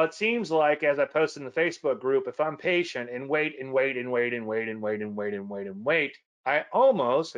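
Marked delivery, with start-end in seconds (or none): 5.8-7.4 slow, louder "almost" with a rise; stress on almost. Shown as a demonstration. Teacher flagging "almost" as the key word, slow and emphatic. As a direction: stretch and lift "almost". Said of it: "almost is a key word in that sentence".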